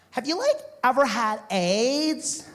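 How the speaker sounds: put-on high, slow surfer-girl question; California babe. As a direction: ask naively in a beach-girl lilt, stretched out. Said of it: "California babe".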